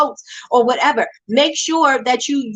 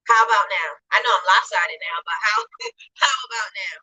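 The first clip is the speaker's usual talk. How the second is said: muffled, like underwater; distorted bad phone audio; 2 semitones lower than usual. Real, not acted. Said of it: "You sound like you are underwater".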